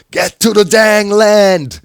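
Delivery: loud, slow, high yell; shouting. Retold or imitated. Gamer shouting at teammate at night, loud and slow. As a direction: bellow it across the house at three A M. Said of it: "I'm shouting at the top of my lungs".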